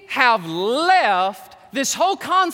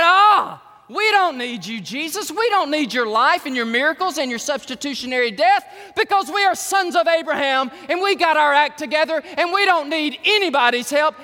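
arrogant; 4 semitones higher, 3 dB louder than usual. Retold or imitated. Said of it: "they all said".

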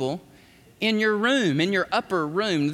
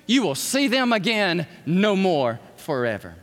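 God's promise; 4 semitones higher than usual. Retold or imitated. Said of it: "watch what he says".

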